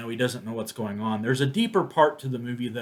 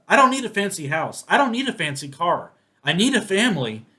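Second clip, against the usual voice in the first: real tears pushing the voice higher and louder; tearful; 6 semitones higher, 5 dB louder than usual. Real, not acted. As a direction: quote it while choking up. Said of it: "I don't know why I'm crying".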